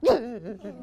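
a throaty growling g; grumpy goose growling g sounds. Shown as a demonstration. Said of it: "Did you hear her growling sound".

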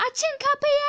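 high, drawn-out demanding cry; desperate yell. Acted. Mother at operating room door, desperate demanding yell. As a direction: yell to be let through the door.

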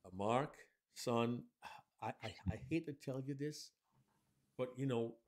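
reluctant dad telling his son the pet died. Shown as a demonstration. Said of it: "my voice was lower for dad".

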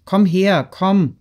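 Dolochow calls Anatol back into the room, calling out; calling after him. A narrator's reading. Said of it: "rief er Anatol nach".

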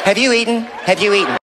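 mother nagging her son about eating; fussing mom. Retold or imitated. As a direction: fuss over him like a mother. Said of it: "all she cares about if I have eaten".

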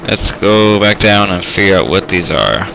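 loud pilot announcement; helicopter voice mode. Pretend. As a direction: call it out over the rotor noise. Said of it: "I shall talk in helicopter voice mode".

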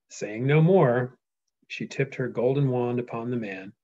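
deliberate storyteller reading; reading aloud. Acted. Reads the epic aloud.

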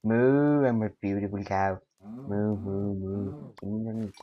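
lightly voiced mooing cow; a hint of a cow, long moos; playful cow act. Player pretends to be a beautiful cow, playful mooing.

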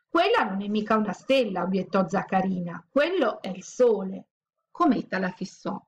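put-on reading a picture book aloud to children, lively; a children's storyteller voice, bright and animated; teacher reading the class a chapter; story reading. A narrator's reading.

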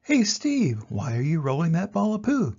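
high call on hey, then settling; curious giraffe. Acted. Giraffe hails Steve rolling poo, high call. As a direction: sing out the name high, then ask. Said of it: "The giraffe says".

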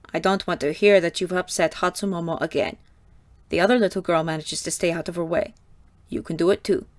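a hint of a stern madam lecturing; lightly voiced raspy Mother, firm; understated stern Mother explaining duty. A narrator's reading. Mother warns the girl.

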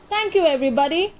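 fast, cheerful shouted thanks; quick happy thanks. Acted. Little bird thanking everyone as he leaves, fast happy call. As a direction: rattle off thanks as he flies, fast. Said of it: "he called back".

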